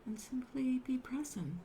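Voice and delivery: unhurried meditation guidance with long pauses; guided meditation. Acted. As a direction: gently guide them into stillness, leaving space between phrases.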